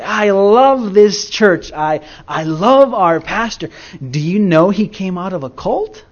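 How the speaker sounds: high, loud and slow on the first words; excited joyful quote. Retold or imitated. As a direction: gush like a happy old lady. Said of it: "excitedly, just joyously".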